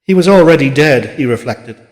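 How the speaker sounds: plain reading voice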